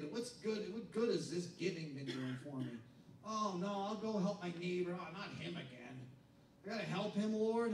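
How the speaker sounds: soft grumbling believer; grudging mutter. Retold or imitated. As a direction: mumble it like someone dragging to church. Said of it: "but I'm always".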